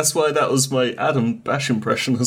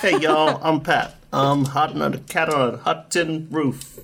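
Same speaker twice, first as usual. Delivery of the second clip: generic American impression. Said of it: "my generic American impression".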